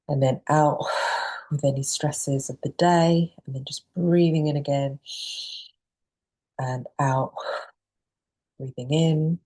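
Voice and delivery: unhurried breathing guide with long pauses; calm meditation instructor pacing the breaths; guided meditation. Acted. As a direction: gently lead them through each breath, leaving space. Leads the opening guided breathing.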